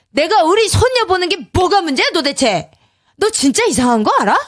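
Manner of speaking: a touch of an angry father-in-law. A narrator's reading. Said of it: "시아버지의 목소리가 커졌다". (살짝 언성을 높인 시아버지)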